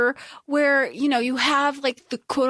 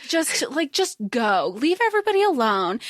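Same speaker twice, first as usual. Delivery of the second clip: fed-up dismissal; 3 semitones higher than usual. Retold or imitated. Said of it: "she's like".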